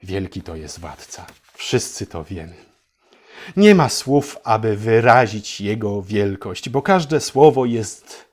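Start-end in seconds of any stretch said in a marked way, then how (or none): 0.0-2.5 mock reverent hush.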